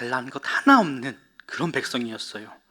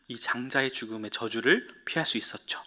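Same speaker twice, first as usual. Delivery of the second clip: whispered, softer close to the curse; dramatic whisper; 5 semitones lower, 8 dB quieter than usual. Acted. Teacher telling children how the curse was escaped, whispering. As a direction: breathe the words like a secret.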